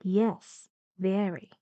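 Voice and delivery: "Yes" and "very" each falling; teacher demonstrating a falling "Yes, very"; falling intonation. Shown as a demonstration. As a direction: let "very" drop to a close.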